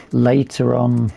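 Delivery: hoarse, losing my voice. Real, not acted. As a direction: voice going hoarse. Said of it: "losing my voice".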